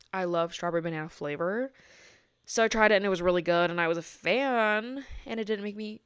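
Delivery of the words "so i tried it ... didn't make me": words caught on burps; burping while talking. Real, not acted. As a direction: talk through rising burps. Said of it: "oh my gosh, I keep burping".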